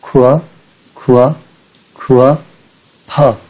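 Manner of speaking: खुआ repeated as half third tone, then फा. Shown as a demonstration. Teacher drilling students, खुआ halved before फा. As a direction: isolate खुआ, then add short फा. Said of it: "ऐसे".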